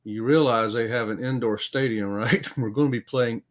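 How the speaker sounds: calm. Retold or imitated. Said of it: "very calmly says".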